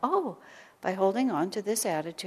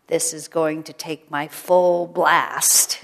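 put-on little girl gearing up; 2 semitones lower, 9 dB louder, much slower than usual. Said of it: "is how she put it".

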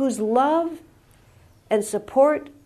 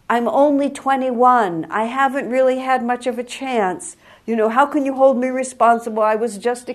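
higher, louder, rushing self-justification; defensive pleading; 4 semitones higher, 5 dB louder than usual. Retold or imitated. Young man justifies himself to Jesus, pleading and rushed. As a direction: plead your case fast, like a kid caught out. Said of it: "trying to justify himself to Jesus".

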